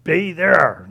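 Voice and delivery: mock indignation, punching the last words; indignant and proud. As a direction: act out a proud objection. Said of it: "He was indignant and proud".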